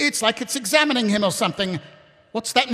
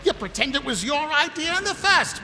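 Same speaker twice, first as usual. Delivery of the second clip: giddy laughing; 5 semitones higher than usual. Acted. Vimes answering Ramkin, giddy laughing. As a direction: giggle through it.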